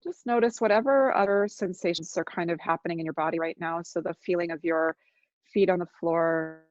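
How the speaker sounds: unhurried meditation guide with long silences; guided meditation. Real, not acted. Teacher guiding listeners to notice their body, calm guided meditation. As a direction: ease listeners into noticing, leaving long pauses.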